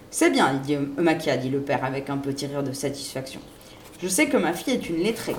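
ordinary delivery

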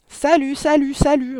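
high parrot call ringing out; loud, clear voice. A narrator's reading. Hidden parrot startling the family at dinner, loud clear squawk.

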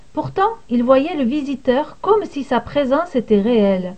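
ordinary delivery

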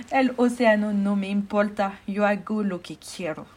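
loud gloating villain voice; mustache twirling villain. Acted. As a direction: boast like a cartoon baddie. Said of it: "con una sonrisa malvada".

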